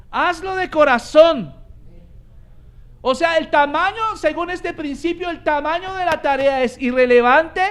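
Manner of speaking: high, loud, driving pulpit delivery; full-force preaching. Acted. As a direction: preach it out to the congregation with growing fire. Preaching climax on Colossians.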